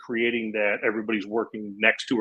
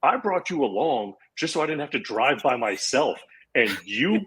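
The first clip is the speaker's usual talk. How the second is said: higher, half-joking incredulous jab at a friend; mock indignant friend; 4 semitones higher than usual. To the friend who booked the lead, mock betrayal. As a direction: lightly play the betrayed buddy. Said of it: "And I was like".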